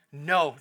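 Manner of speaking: "no" set apart by a pause, firm; emphatic no. Real, not acted. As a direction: land "no" firmly after a beat. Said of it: "The answer is an emphatic".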